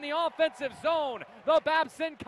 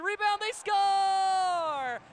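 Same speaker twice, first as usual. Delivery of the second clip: long goal yell; 4 semitones higher, much slower than usual. Real, not acted. Goal call slow yell.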